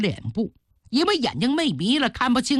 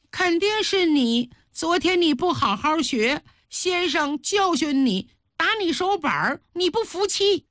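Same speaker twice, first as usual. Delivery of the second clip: put-on high little-girl voice climbing as it goes; accusing child; 6 semitones higher than usual. A narrator's reading. Schoolgirl accusing her classmate, high insistent child voice. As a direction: pile on the accusation in a child's raised pitch.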